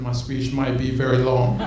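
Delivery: laughing speech opener. Shown as a demonstration. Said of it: "I'm gonna give a one-minute speech".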